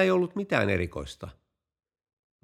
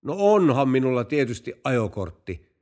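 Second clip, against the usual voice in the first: mildly raised voice in reply; calling back; 4 dB louder than usual. Acted. Driver answering the police chief from afar, calling back. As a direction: call back as if it were obvious. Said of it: "huusi kuljettaja".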